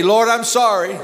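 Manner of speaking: prayer line called out to the congregation; projected, model repentance line; leading a prayer. Shown as a demonstration. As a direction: say it out firmly for others to repeat. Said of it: "Say it with me".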